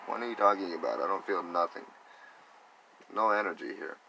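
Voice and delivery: incredulous retort. Retold or imitated. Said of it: "and I'm like".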